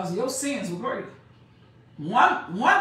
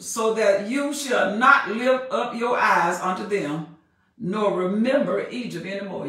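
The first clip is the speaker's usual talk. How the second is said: measured preaching cadence; scripture reading. Acted. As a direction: read it like the Word itself. Preacher reads scripture aloud.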